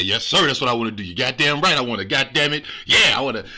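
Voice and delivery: loud, over-keen imitation; hammed-up eager agreement; mock eagerness. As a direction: imitate someone jumping at the offer, punchy and emphatic. Mocks defendant's eager guilty plea.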